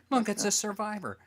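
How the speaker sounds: high, teasing voice pointing someone out; a touch of a crowd gawking at a survivor; mock onlookers. Mocking the guys again.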